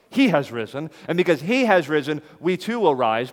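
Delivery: triumphant preaching; ringing proclamation. Real, not acted. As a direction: proclaim it to the hall. Preacher building to proclaim resurrection.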